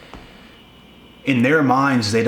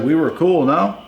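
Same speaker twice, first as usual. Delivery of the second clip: imitating her; 5 semitones higher than usual. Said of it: "It's like".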